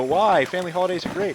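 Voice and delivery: high-pitched imitation of offended family; mock protesting relatives. Grandchild imitating grandparents defending family holidays, high mock protest. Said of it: "And they go".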